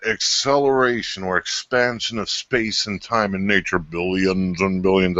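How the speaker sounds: lightly voiced Carl Sagan; a hint of Sagan's wonder; Carl Sagan impression. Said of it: "I'll do the Carl Sagan on you".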